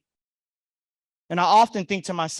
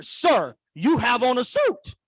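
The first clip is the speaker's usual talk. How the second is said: mock self-reproach; 5 semitones higher, 5 dB louder, slower than usual. Acts out scolding himself.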